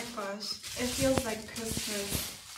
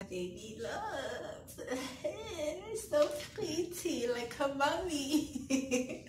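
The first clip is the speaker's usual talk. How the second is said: laughing fondly; 5 semitones higher, slower than usual. Real, not acted. Showing off her camera proudly.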